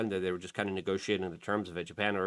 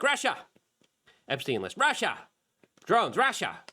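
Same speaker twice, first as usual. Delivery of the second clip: mock panic; 9 semitones higher, 4 dB louder than usual. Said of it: "everyone's like".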